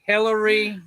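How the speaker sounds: each name set apart by a long pause; suspenseful reveal. Real, not acted. Host revealing rabbits' names to viewers, pausing for suspense. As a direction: dole the names out one at a time.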